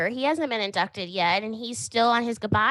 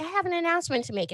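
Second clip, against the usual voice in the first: mock teasing announcement; 7 semitones higher, faster than usual. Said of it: "she's like".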